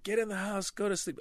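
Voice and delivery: hammed-up stern parent; strict parent order. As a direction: bark it like an old-school parent.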